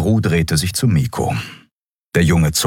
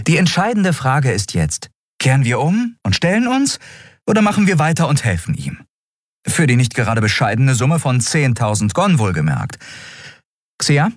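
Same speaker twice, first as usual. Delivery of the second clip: put-on much higher, quick, insistent young captain; eager defense; 9 semitones higher than usual. Endriel defends Kai to the doubting crew, high and insistent. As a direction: defend Kai with hopeful conviction.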